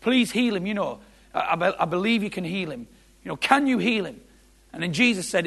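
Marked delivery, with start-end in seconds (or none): 0.0-4.2 mildly higher, urgent plea; retold pleading. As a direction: beg for help, retold. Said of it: "and he says".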